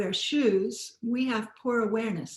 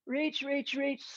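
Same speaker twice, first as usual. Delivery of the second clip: higher, softer straining voice; straining in a stretch; 4 semitones higher, 5 dB quieter than usual. Shown as a demonstration. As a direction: urge them on through the stretch. Stretching hard while leading exercise.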